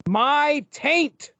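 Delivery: high-pitched, hammed-up villain cry; Demogoblin's mock yell. Podcaster reads Demogoblin's taint line to co-hosts, mock yell. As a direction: proclaim it in a mock comic-book yell. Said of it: "he yells".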